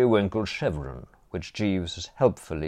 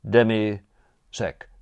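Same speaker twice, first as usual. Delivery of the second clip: "Demi-sec" drawn out, each syllable slowly; slow, deliberate; much slower than usual. Acted. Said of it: "Forgive me, sir".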